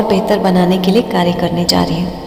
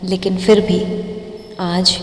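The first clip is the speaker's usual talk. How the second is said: slow, drawn-out meditation guidance with long pauses; guided meditation. Acted. Meditation teacher guiding listeners through breathing, slow guided-meditation voice. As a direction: stretch key words and leave room to breathe.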